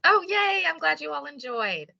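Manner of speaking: real delight at being thanked. Real, not acted. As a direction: squeal the yay, stay high.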